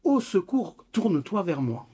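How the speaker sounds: cri d'enfant léger, d'abord plus aigu; enfant qui appelle. Retold or imitated. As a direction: imiter doucement un petit qui tire sa maman. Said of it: "comme un enfant qui voit sa maman de dos et qui tire derrière en disant". (petit enfant qui appelle sa maman, imité avec retenue)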